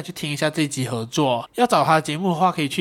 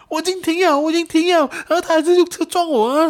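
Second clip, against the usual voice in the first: much higher, louder indignant insistence; ranting over and over; 13 semitones higher, 5 dB louder than usual. Retold or imitated. Injured rider keeps repeating his complaint, indignant ranting. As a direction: insist in a loop, outraged. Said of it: "疯狂在鬼打墙的讲说".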